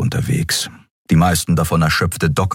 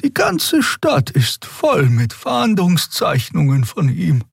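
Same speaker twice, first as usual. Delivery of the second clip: slow, high wondering voice; musing; 12 semitones higher, slower than usual. Acted. Xia puzzling to Kero, slow and high. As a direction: puzzle over it.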